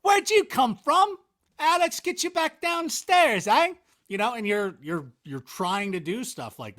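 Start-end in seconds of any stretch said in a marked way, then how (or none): 0.0-3.7 high, loud Scottish storybook accent with a laugh; playful Scottish accent; Scottish watchman. Shown as a demonstration. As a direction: do the Scottish security guard for a child. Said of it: "the night security watchman is Scottish".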